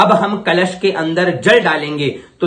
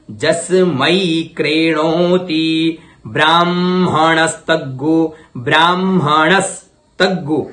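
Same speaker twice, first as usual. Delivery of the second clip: in pieces; slower than usual. Shown as a demonstration. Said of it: "मैं टुकड़ों में कर रहा हूं".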